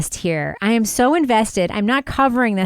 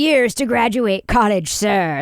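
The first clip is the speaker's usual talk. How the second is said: mock fiery defense attorney; 3 semitones higher than usual. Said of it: "the fiery ones who were like".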